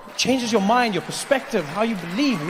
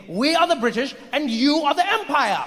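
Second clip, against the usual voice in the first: high, haughty British correction; condescending British imperialist; 8 semitones higher than usual. Acted. British person corrects Indian about the empire, condescending. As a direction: stress who rules whom, pompously.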